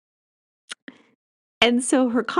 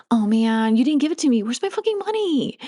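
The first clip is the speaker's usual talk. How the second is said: frustrated demand; 3 semitones higher than usual. Shown as a demonstration. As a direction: complain like you've been cheated. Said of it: "That's very different energy".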